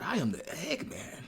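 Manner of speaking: slow, half-whispered lyric; hushed recitation. Acted. Fan reading the strange lyric aloud, hushed. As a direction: whisper it slowly like a revelation.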